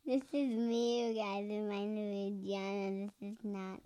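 soft, trailing self-introduction; quiet correction. Shown as a demonstration. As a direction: introduce yourself softly, fading off. Child quietly counters dad's impression.

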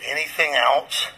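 a dry, sarcastic question; retold pastor asking sarcastically. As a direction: toss it off with mild sarcasm. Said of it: "kind of sarcastically".

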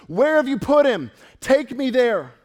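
righteous anger, mildly acted; Jesus. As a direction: demand it firmly with a touch of anger. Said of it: "righteous anger welled up within Jesus".

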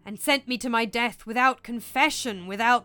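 slow, swelling lament of a murdered king; drawn-out spectral agony, dying to a breath; anguished ghost. Acted. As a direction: wail the horrors, drawing out the words. Ghost recounts his murder.

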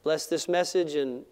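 earnest pastoral prayer. Acted. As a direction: pray it sincerely, unhurried. Closing prayer.

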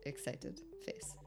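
put-on understated claim of excitement in accent; unexcited. Contestant assures host he is excited, deadpan. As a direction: claim excitement with no lift at all. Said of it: "Are you sure? You don't sound very excited".

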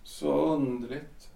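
slow, soft "Så underligt" rising at the end; a husband left alone, bewildered; stunned musing. Acted. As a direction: murmur it to yourself, dazed. Alone after wife leaves.

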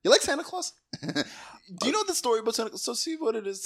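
high, teasing hustler Santa; sleazy Santa bit. Pretend. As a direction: pitch it like a shady salesman. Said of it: "I'm doing a bit".

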